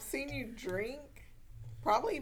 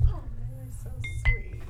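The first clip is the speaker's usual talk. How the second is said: whispering; 3 semitones higher, 5 dB louder than usual. Real, not acted. Whispered reply to teasing.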